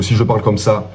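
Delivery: first of two contrasting speech rates; delivery-rate demo, first take. Shown as a demonstration. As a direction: show one way of pacing the line. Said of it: "Le débit".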